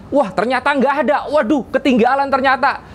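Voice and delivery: high, quick mock alarm; acted dismay. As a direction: act out suddenly finding it missing. Acts out wife finding phone missing. (pura-pura kaget dan panik)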